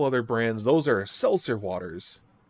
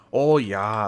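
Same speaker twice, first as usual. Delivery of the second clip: a hint of a louder northern Minnesota accent; 5 dB louder than usual. Shown as a demonstration. Showing the northern accent they don't have, light Minnesota accent imitation. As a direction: lightly mimic an Upper Midwest Michigan-Minnesota accent. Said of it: "up in the north, uh, Michigan, Minnesota".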